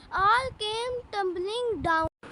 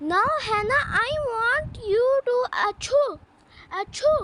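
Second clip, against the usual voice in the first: sneezing; 4 semitones higher than usual. Acted. Dad sneezing mid-sentence.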